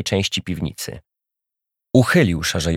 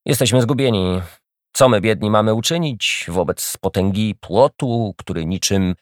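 mocking. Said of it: "drwił dalej".

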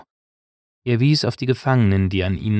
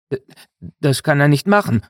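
higher, flustered stammer; distraught stammer; 5 semitones higher, 4 dB louder than usual. A narrator's reading. Gaddo protests at Gonak's news, stammering and distraught. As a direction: stumble into a shocked protest. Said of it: "stotterte Gaddo verstört".

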